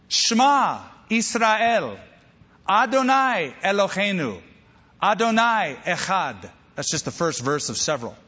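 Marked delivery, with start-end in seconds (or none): 0.1-6.5 put-on higher, slow, sing-song child reciting; like a tiny boy proudly reciting the Shema; cute little toddler voice. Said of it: "saying in that cute little voice".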